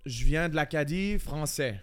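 badly faked French-from-France accent; accent français de France. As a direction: claim it in a mock French accent. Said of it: "C'est un accent français?". (faux accent de France)

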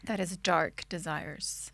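low breathy seductive whisper; dark sexy voice. Pretend. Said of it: "I was trying to say it with a dark voice".

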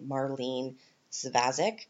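Marlene Svazek in a Canadian accent, Mar-leen Svaz-ick. Shown as a demonstration. Host contrasting the name in her Canadian accent. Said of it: "in a Canadian accent".

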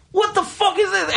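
high, laughing what the fuck; incredulous, half laughing; mock disbelief. Recalling the pushy manager, high laughing disbelief.

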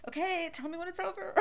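imitating daughter covering her eyes; daughter squeamish. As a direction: mimic a squeamish kid with a laugh. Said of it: "she's like".

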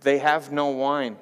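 slow, drawn-out mild whine; whining. Acted. Jesus' mom complaining to her son at the wedding, whining. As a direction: draw out a mother's whined complaint. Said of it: "and she's whining".

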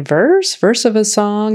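mock puzzlement; puzzled. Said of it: "I'm thinking".

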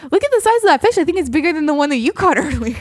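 giddy gloating at the bigger catch; teasing brag. Retold or imitated. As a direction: rub it in playfully. Teasing husband about bigger fish.

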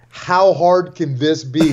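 slow, dismissive "How hard can this be?"; smug teen shrugging off advice; cocky quote. Retold or imitated. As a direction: say it like it's nothing. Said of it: "He literally said".

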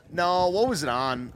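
ordinary talk, nothing marked

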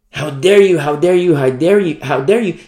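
scolding "How dare you" pressed hard each time; rebuking how dare you. Pretend. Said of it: "I don't want to say".

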